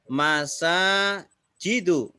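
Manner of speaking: MASAJIDU slowly, long second A, ending in short U; model reading. Shown as a demonstration. Teacher models the example word, slow careful reading of Masajidu. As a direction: draw out "Masajidu" with a final -du. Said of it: "maka setelahnya dibaca apa".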